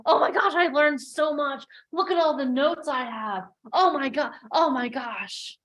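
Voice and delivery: high, loud gushing that calms toward the end; mock a starstruck attendee raving about the event; gushing fangirl.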